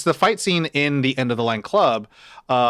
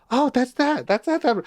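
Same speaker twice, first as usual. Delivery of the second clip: excited recognition; 11 semitones higher than usual. Retold or imitated. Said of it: "to your point of like".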